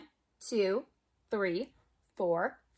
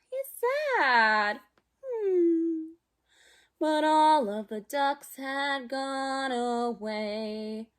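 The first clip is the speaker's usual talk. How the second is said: lively storybook read-aloud for little ones; reading to children; slower than usual. Acted. Teacher reading a picture book to kids at home, lively. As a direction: read it like circle time, bright and playful.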